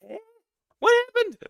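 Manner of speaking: high sudden what happened; startled. Real, not acted. Streamer startled by chat, high yelp. Shocked reaction.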